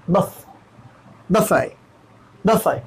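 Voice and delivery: बफे with a short बफ, not बुफ; teacher models बफे, short first vowel; buffet as buff-ay. Shown as a demonstration. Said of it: "बुफ की जगह बफ कहेंगे".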